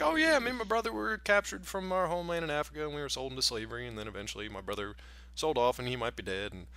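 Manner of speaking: breezy, smiling tale of horrors; lightly voiced cheerful old smith; cheerful mock storyteller. Mimicking cheerful Moses telling kids.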